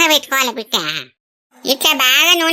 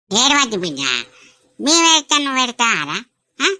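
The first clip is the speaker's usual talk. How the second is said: low, consoling grandparent; soothing; 6 semitones lower than usual. Acted. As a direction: gently lower the voice to stop tears. Grandparent soothing crying child. (బుజ్జగిస్తూ ఓదార్పు)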